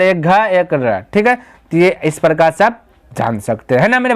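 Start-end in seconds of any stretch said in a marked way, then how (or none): 0.0-1.0 एक घ, एक र spelled out very slowly, one letter at a time; teacher counting the letters of घर for students, slowly. Shown as a demonstration. Teacher splits घर into its letters for students, slowly spelled. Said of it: "दो अक्षर".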